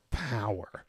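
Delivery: whispered. Real, not acted. Awed hushed emphasis.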